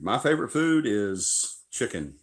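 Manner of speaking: slow, playful voice for the dog. Pretend. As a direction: answer for the husky. Answers as the dog.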